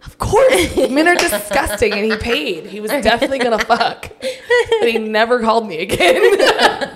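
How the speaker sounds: laughing while talking. Real, not acted. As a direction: giggle through the words. Laughing through embarrassing story.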